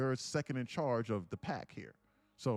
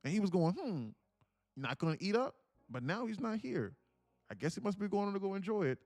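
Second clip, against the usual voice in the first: lightly voiced wildebeest; 5 semitones higher than usual. Wildebeest voiced recalling Willie.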